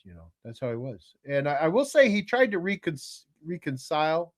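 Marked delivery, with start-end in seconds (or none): 3.4-4.3 "reconcile" said REE-con-sile; "reconcile" as REE-con-sile, unsure; unsure pronunciation. Real, not acted. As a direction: try "reconcile" with a long ee in the first syllable. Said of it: "What is it?".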